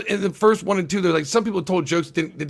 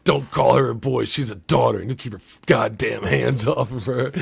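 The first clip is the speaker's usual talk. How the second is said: lower, lightly voiced protective father; a hint of a gruff dad laying down the law; tough dad line; 5 semitones lower than usual. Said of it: "he delivers it really good".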